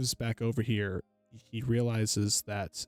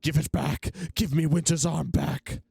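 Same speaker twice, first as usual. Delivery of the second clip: loud, high-pitched demanding yell; 6 semitones higher, 5 dB louder than usual. Acted. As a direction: shout it out, demanding it back. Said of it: "he would yell out".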